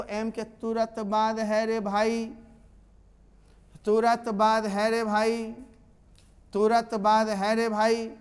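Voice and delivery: slow, each repeat hammering बाद; emphatic repetition. Shown as a demonstration. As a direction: drill it home slowly. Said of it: "repeats rule emphatically". (धीरे, ज़ोर देकर दोहराना)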